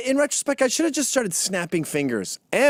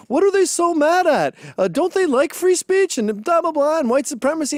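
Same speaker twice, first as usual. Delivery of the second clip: mock earnest questioning; 11 semitones higher than usual. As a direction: play the puzzled pundit, hammed-up. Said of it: "intellectualize this and say".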